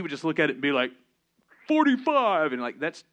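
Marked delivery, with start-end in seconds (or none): 1.7-2.5 son's voice. Retold or imitated. Son voiced in a story.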